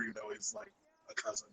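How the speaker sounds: glitchy robotic connection. Real, not acted. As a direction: sound like a breaking-up call. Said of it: "He sounds super robotic".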